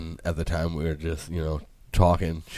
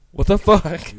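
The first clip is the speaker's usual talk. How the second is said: higher, louder shocked "What the fuck?"; mock yell as the clippers hit the middle; 11 semitones higher, 9 dB louder, slower than usual.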